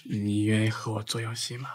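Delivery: soft unvoiced shy whisper. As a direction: breathe the question shyly. Shy invitation to wife.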